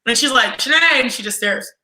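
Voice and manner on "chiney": higher, louder, stern "Chiney" with a falling end; coach stern call. Retold or imitated. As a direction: call "Chiney" sternly before a long stare. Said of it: "I always do her voice".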